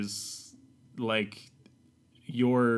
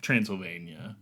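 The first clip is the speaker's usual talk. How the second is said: put-on Harker British accent; 2 semitones lower, slower than usual. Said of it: "Was that your Transylvanian accent?".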